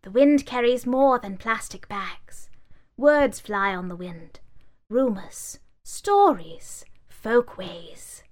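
lightly voiced sage; wise old book. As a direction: speak it with resolve. Book resolves.

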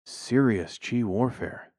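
slow, drawn-out ominous words; slow ominous hippie. Acted. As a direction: say it slowly, like a warning.

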